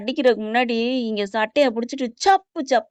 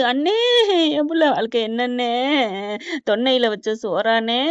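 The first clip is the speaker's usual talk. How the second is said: retold weeping. Mother lamenting her child's life to her brother, mock tearful wail. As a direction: imitate a mother lamenting, stretching the last syllables. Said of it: "அப்படின்னு சொல்லி அழுக".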